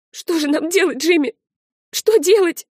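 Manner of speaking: begging the friend for a way out; girl asking her friend in panic; frightened plea. Acted. Terrified girl begs for help.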